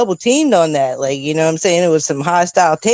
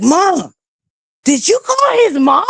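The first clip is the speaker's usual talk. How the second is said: embarrassed son; 12 semitones higher than usual. Retold or imitated. Embarrassed son confronts mom.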